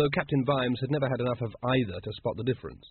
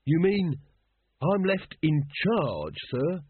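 higher, slow, awed question; thrilled recruit, hardly believing it; unbelieving delight; 5 semitones higher, slower than usual. A narrator's reading. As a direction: ask in grinning disbelief. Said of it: "unbelieving grin".

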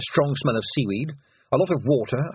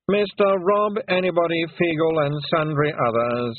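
voice of dread; 6 semitones higher than usual. A narrator's reading. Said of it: "in a voice of dread".

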